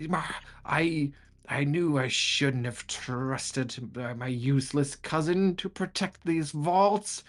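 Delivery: high, drawn-out furious wail; enraged screaming villain. Acted. Belcora screams at intruders in her vaults, high furious wail. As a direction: rage like a vengeful spirit screeching at intruders. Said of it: "and she screams at him".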